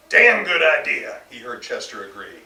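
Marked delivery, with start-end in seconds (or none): 0.1-1.2 loud, slow bellowed approval; hearty agreement. Acted. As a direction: boom it out, slowly. Chester agrees loudly from couch.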